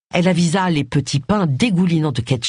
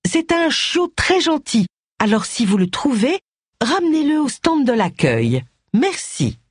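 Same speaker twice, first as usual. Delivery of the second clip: loudspeaker announcement; 7 semitones higher than usual. A narrator's reading. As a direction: announce it like a fair steward on the tannoy. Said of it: "la voix de Mrs Blocksby dans les haut-parleurs". (annonce au haut-parleur, voix plus aiguë et posée)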